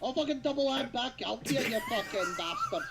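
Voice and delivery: put-on glasgow street accent. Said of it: "words coming out of his mouth".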